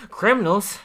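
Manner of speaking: high, loud incredulous repeat; mock shocked echo. Ned shocked at Lisa's accusation, mock outrage. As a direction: squeal the word in disbelief.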